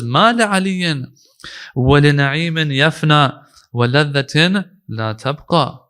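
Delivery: measured, slow reading of the Arabic; slow Arabic recitation. Acted. Quoting Imam Ali to the congregation, slow recitation. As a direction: recite each word with weight.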